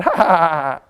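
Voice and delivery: a burst of real laughter; chuckling after the outburst; laughing it off. Real, not acted. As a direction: laugh at your own mishap.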